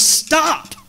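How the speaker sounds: loud high yell at a truck; worker's shout. Retold or imitated. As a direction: bellow Stop at the wrong-way driver. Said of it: "He goes, he goes".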